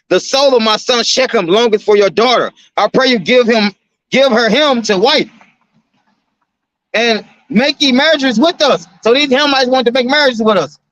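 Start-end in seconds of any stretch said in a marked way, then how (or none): 0.1-8.9 raised, measured King James reading voice; slightly lifted Bible-study reading tone; scripture reading. Acted. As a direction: read the verse with preacher weight. Reads scripture aloud.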